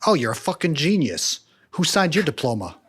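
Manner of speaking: sarcastic mock praise. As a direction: yell it like fake admiration.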